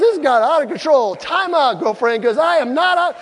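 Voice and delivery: loud, high comic protest, slowing on the last words; retold outrage, hitting each word hard; mock indignant outburst. Husband arguing with wife over his nut roll, loud mock indignation.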